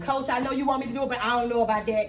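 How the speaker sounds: fast, low grumbling excuses; reluctant excuse-making. Acted. Client balking at coach's early morning routine, grumbling.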